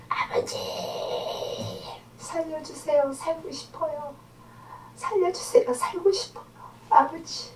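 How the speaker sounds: high, thin plea; imitated crying out. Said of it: "소리 질러가면서".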